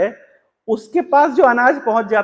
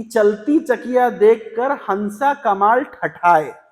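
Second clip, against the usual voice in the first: slow verse recital; much slower than usual. Acted. Reciting Kamal's reply couplet.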